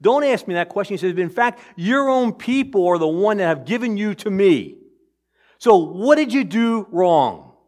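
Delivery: a hint of sneering Pilate, pushing back; lightly voiced scornful governor; sarcastic Pilate. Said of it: "in his sarcasm".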